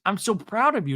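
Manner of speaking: high-pitched mock tearful pride; put-on high, moved gushing; tearing up. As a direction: raise the voice, imitating a man welling up. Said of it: "he's tearing up".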